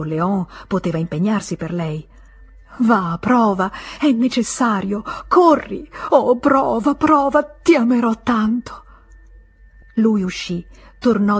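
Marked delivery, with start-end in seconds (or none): 2.8-8.8 louder and higher, rising to a cry on corri; desperate pleading. Acted. Emma urging Léon to find money, desperate and louder. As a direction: push him out the door with your begging.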